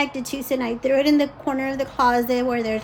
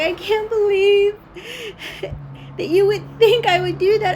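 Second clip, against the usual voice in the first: high, loud mock indignation; angry daughter; 8 semitones higher, 6 dB louder than usual. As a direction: imitate an offended daughter protesting. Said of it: "and she got angry".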